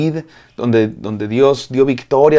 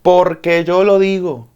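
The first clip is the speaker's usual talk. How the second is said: higher, slow, put-on scolding mother; bossy mom; 6 semitones higher, slower than usual. Preacher imitating a mother scolding her child, slow and high. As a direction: lay down the law like a mother ending the argument. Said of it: "como cuando tu mamá te dice".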